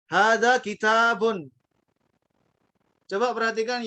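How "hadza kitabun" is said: Hadza kitabun as an Arab says it, slow, long vowels. Retold or imitated. Teacher imitates native Arabs, slow long vowels. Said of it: "Orang Arab bilang".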